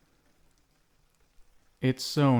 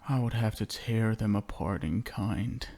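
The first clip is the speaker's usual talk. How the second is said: ordinary talk, nothing marked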